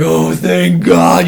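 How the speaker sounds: slow relieved sigh of words; drawn-out relief. Retold or imitated. Hiker relieved to see the trailhead sign, slow. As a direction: let the relief out slowly.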